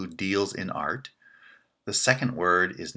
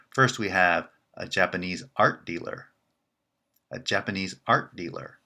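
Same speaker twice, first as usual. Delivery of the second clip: art carries the pitch in Japanese art dealer; stress on art. Shown as a demonstration. Teacher contrasting a dealer from Japan. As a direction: peak on art, not on Japanese. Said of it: "The contrast is with".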